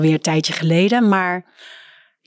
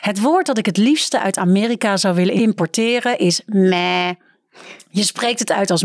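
reading aloud. Acted. Reads book excerpt aloud.

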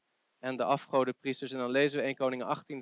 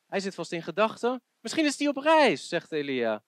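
taunting, rising high, the end quick; mocking Elijah; 5 semitones higher than usual. Preacher voicing Elijah taunting Baal's priests, mocking. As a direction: needle them that their god is asleep. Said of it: "Zie je hoe Elia is aan het spotten".

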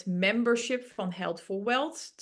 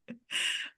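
blowing nose; 5 dB quieter than usual. Real, not acted. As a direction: blow your nose hard. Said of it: "wat een neus". (neus snuiten)

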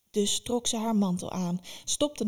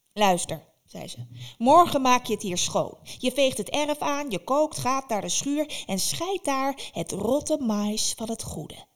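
bossy witch; 4 semitones higher, 4 dB louder than usual. Acted. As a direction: bark out the list of chores. Baba Yaga gives orders.

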